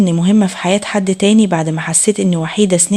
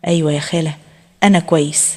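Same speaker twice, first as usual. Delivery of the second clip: lower, subdued, sad reply; 5 semitones lower than usual. A narrator's reading. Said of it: "بس صوته كان حزين". (بصوت حزين وواطي)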